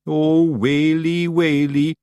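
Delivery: high, loud Scottish pixie wail; panicked wail. Acted. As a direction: cry out in terror like a tiny Scot. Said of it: "cried Daft Woolly".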